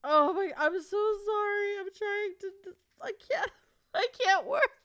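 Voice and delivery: high, crying and laughing at once; real tearful overwhelm. Real, not acted. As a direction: struggle to get words out through happy tears. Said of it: "why am I crying again".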